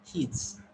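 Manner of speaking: "his" with a short ih; teacher showing a quick i in "his". Shown as a demonstration. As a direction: cut the vowel short in "his". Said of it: "So this is short E".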